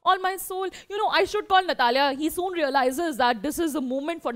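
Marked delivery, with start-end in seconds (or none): 0.0-2.0 higher-pitched, mildly giddy happiness; overjoyed. Acted. Teacher voices a father fainting with joy, mildly overjoyed. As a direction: act out being a little overcome with joy. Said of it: "he's so happy that he's like".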